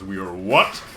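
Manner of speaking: loud, high, drawn-out hype; hyped-up shout. Real, not acted. Streamer hyping viewers before killing the monster, excited shout. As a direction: belt it out like a catchphrase.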